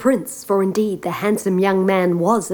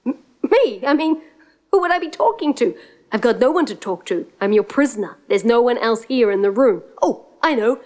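fast, higher, stammering excuses; nervous liar; 3 semitones higher than usual. Acted. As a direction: talk your way out, flustered. Prince lying to giant.

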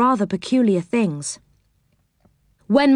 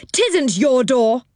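mock shout; 5 semitones higher, slower than usual. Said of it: "shouted Moonface".

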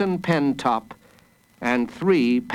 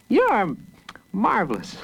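tag-worthy praise; 8 semitones higher than usual. A narrator's reading. Praise from an admiring character.

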